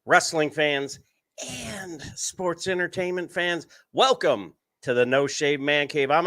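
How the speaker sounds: big ringmaster announcement. Acted. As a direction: open the show like a ring announcer. Opening a live wrestling show.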